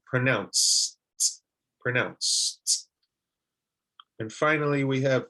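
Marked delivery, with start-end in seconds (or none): 0.1-2.9 pronounced with a tiny pause before the T; slight pause before ending. Shown as a demonstration. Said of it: "a slight pause in between the verb pronounce and the ending sound".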